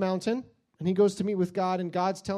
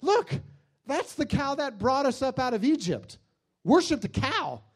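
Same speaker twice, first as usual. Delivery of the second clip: excited proclaimer; 6 semitones higher than usual. Retold or imitated. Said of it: "somebody else says".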